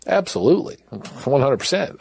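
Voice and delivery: jumps up high with an eager absolutely; eager yes. Retold or imitated. Prisoner eagerly accepting the officers' offer, sounding thrilled. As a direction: snap at the chance, sounding thrilled.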